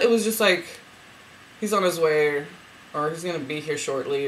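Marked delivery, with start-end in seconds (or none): 1.6-4.3 businesslike. Retold or imitated. Relaying his arrival in the dream, businesslike. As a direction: report it evenly, like office business. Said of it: "something very businessy".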